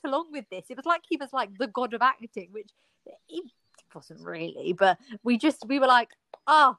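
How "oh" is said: loud, high, fawning praise; mock gushing. Students applauding the god of acting, gushing. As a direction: imitate students over-praising their teacher. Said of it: "we'd always applaud him".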